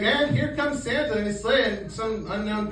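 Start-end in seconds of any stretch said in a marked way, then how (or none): 0.0-1.6 TV announcer. Retold or imitated. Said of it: "they're just like".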